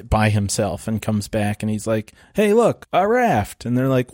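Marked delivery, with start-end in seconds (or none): 2.3-3.6 higher, mildly excited calling out; mock excitement. Movie character shows the others a raft, mock excited. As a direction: lightly act out a happy discovery.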